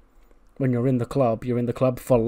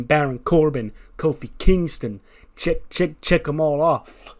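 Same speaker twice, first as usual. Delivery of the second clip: mock Mello brag. Mello reads his hit list.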